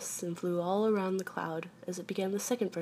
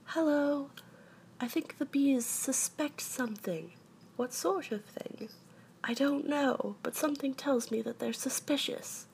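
higher-pitched storybook bear, suspicious; worried Pooh; 6 semitones higher than usual. A narrator's reading. Pooh warns that bees suspect, high worried voice.

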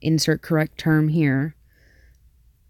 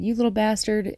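yelled; 6 semitones higher than usual. Retold or imitated. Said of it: "And so I yelled".

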